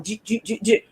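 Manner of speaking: soft mumbled puppet babble; imitated mask noise. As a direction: imitate a mask flapping with speech, quietly. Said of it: "The mask is going".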